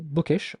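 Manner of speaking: "bookish" with one short k; no lengthening of the k in "bookish"; quick, undoubled k in "bookish"; single K. Shown as a demonstration. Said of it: "single K".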